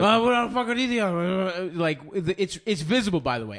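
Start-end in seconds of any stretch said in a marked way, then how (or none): 0.0-1.8 mock flustered and heated; heated, shaken. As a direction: imitate someone getting rattled fast. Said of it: "you got heated quick".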